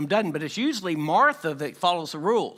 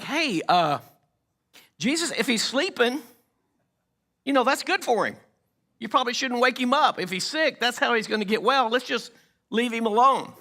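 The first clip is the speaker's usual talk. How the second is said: nervous disciples; 5 semitones higher than usual. Retold or imitated. Disciples nervously dodge going.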